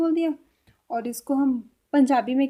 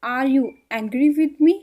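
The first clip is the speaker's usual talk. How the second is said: slow and clear, every word drawn out; slow, careful English for Hindi speakers; slow teaching demo; 7 dB louder, much slower than usual. Shown as a demonstration. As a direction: model the whole question slowly for the learner. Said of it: "इसको English में कैसे बोलेंगे".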